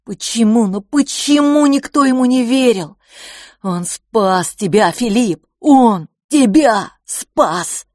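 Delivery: anguished outburst on the edge of tears; frustrated, tearful cry to Philipp; near tears. A narrator's reading. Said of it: "Он был готов заплакать".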